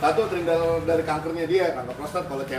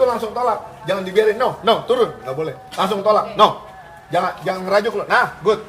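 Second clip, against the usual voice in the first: loud, sharp commands to the dog; firm correction; 2 semitones higher, 5 dB louder than usual. Real, not acted. Trainer correcting a jumping dog during the session. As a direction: push back the jumping dog firmly.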